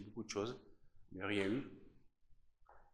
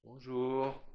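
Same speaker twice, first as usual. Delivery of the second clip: louder, higher hello thrown into the empty halls; loud call; 5 semitones higher, 9 dB louder than usual. Real, not acted. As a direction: call out so any ghost can hear. Calls out to spirits loudly.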